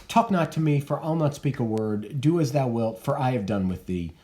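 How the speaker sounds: a hint of a curt, cold mother; a mother refusing her daughter, curt and cold; cold Lady Capulet. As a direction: shut her out, refuse to talk.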